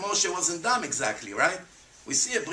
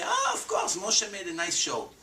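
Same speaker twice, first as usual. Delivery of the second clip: sarcastic scoff. Retold or imitated. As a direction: sneer at it like a skeptic. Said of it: "People would come and say".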